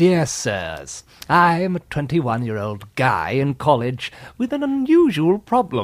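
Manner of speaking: put-on British accent. Reading a listener's letter aloud after being asked: British accent. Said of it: "do you wanna read it in a British accent?".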